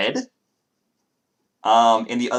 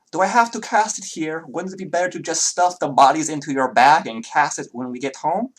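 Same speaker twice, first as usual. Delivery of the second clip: high voice; 7 semitones higher, 5 dB louder than usual. Acted. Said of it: "the last thing you hear is".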